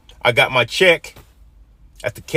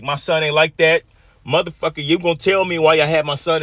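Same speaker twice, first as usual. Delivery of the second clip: higher-pitched retold angry demand; pissed-off dad; 6 semitones higher than usual. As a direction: confront them as an indignant father. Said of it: "my dad was pissed".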